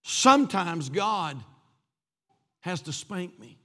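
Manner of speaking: put-on a toddler owning up to his dad; sheepish little boy. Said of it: "that little sheepish voice came back".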